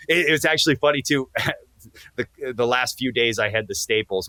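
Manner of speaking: ordinary talk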